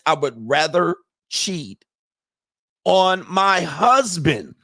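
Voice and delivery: slow, drawn-out mock quote; incredulous quoting. Host quoting the woman who would cheat, incredulous. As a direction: repeat her answer slowly, hanging on each phrase. Repeats woman's answer in disbelief.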